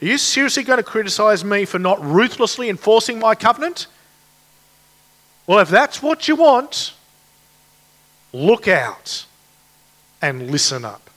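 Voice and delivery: exasperated warning building up; weary frustration. Retold or imitated. God answering his accusers, frustrated and exasperated. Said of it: "God in his weariness and frustration says".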